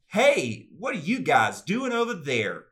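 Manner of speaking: slow, high, loud voice with Southern accent showing; over-careful attempt to tidy a Southern accent; attempted accent-free voice. Shown as a demonstration. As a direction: stretch it out, trying to hide the Southern twang. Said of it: "That's my attempt to".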